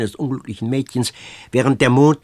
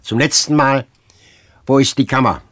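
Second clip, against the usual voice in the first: hard and cutting; 6 dB louder than usual. A narrator's reading. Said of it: "hart und schneidend gesagt".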